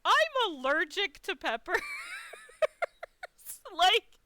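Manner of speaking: loud, high wail breaking into sobbing sounds; wailing despair. Retold or imitated. Guest finds peppers on pizza, loud high despairing wail. Despairing climax about allergy.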